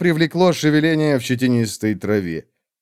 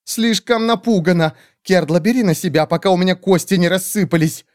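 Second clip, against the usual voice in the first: much higher squeaky groveling bird voice; fawning creature; 7 semitones higher than usual. Acted. Skeletal bird creatures grovelling before the great witch, high squeaky. Telorast scared.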